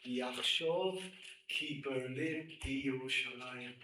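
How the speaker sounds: slow, measured quoting; solemn recitation. Shown as a demonstration. Preacher reciting the rabbi's Hebrew words slowly. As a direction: intone the Hebrew text slowly.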